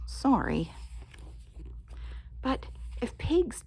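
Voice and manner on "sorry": sheepish whisper. Acted. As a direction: whisper an apology. Apologetic whisper.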